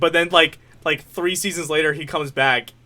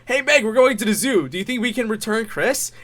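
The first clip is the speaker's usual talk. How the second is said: eager, high-pitched cartoon dad; Peter Griffin; 7 semitones higher than usual. Cartoon dad running to his daughter, eager imitation. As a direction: call it out higher, like a keen dad. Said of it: "you just hear".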